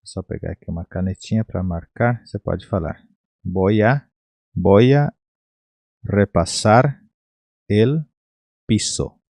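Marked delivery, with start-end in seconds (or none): 3.4-9.2 "Voy a" joined as one word, then "repasar", "el", "piso" separately; linking demo. Shown as a demonstration. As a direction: demonstrate "Voy a" fused, pausing after each chunk. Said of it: "você pode unir isso aqui". ("Voy a" unido, em blocos pausados)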